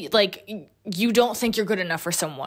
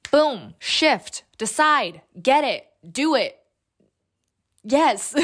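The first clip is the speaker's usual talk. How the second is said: excited; 4 semitones higher, much slower than usual. Real, not acted. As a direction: fire each word off like a coach. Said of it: "I'm just excited".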